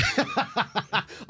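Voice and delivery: real helpless cackle of amusement; big high laugh. Real, not acted. Guest teased by his old friend, laughing hard. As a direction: burst out in high-pitched laughter.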